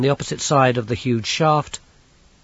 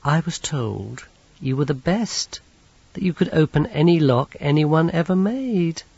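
lightly voiced polite young villain, a touch higher; Teatime's voice; 5 semitones higher than usual. Teatime addresses locksmith.

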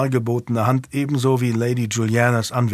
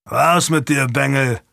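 growl; 3 dB louder than usual. Acted. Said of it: "knurrte er".

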